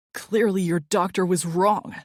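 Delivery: loud curt bark; barked retort. Acted. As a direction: snap it at her. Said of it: "he barked".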